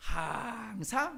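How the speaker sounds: 항상 elongated, drawn out, held long. Showing how to read the word 항상 for a group, drawn-out 항상. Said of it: "짧게 읽으면 안 돼요. 길게 읽어야 돼요".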